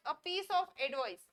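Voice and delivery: each word spaced out slowly for students; slow model sentence. Shown as a demonstration. Teacher reading an example sentence for learners, slowly. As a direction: dictate it slowly. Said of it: "तो advice".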